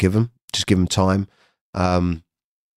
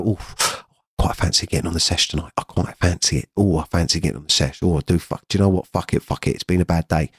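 mildly hushed, coaxing inner voice; tempting inner voice; 3 semitones lower, faster than usual. Retold or imitated. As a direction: lightly voice the urge talking you into a binge. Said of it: "That's what my mind used to be like".

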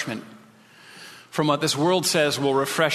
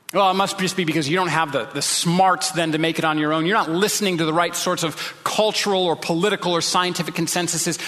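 imitating a condescending scoffer; mild mockery; 3 semitones higher than usual. Elites scoffing that you're not smart enough, mild mockery. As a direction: talk down to the believer, mildly mocking. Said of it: "scoffing or mockery".

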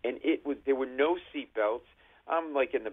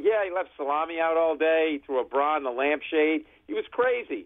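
mock sarcastic agreement; 4 semitones higher, 4 dB louder than usual. Sarcastic reply to cop.

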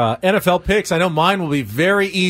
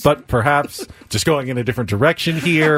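imitating the glitch. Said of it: "see if he could do it the whole time".

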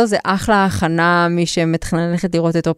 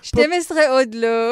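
put-on flirtatious French accent; 4 semitones higher than usual. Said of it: "לחזור לדבר במבטא צרפתי".

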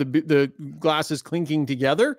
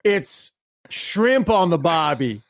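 drawn-out Australian accent, slowly; slower than usual. Shown as a demonstration. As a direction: put on a slow Aussie twang. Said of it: "The accent kinda worked".

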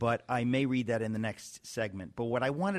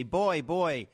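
higher-pitched mock call from a window; shouting down; 4 semitones higher than usual. Host as Scrooge figure calling the boy below, mock shout. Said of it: "I shout down".

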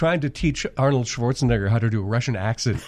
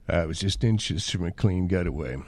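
Jack Nicholson as Doc Brown; 5 semitones lower, 4 dB quieter than usual. Acted. Doc Brown in Nicholson's voice brags to Marty. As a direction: purr it like Nicholson, pleased with himself. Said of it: "And Jack Nicholson is Doc Brown".

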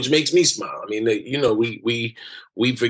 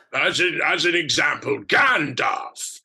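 higher, booming wizard proclamation; Gandalf; 4 semitones higher than usual. Retold or imitated. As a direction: call out like an old wizard. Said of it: "how he speaks".

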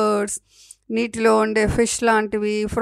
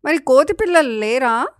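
put-on higher, louder childlike question; innocent baby monkey; 5 semitones higher, 8 dB louder than usual. A narrator's reading. Baby monkey asking the forest mother about monkey young, innocent. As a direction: pipe up as a naive little monkey. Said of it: "అమాయకంగా అడిగింది పిల్ల కోతి".

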